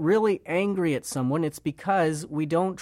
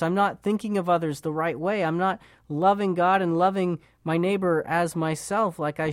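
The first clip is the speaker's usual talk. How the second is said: earnest confession. Acted. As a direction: confess it with full conviction, then ask for forgiveness. Preacher voicing a heartfelt confession.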